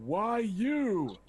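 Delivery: loud high bellow from above. Acted. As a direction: bellow it down from a tower. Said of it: "comes bellowing down".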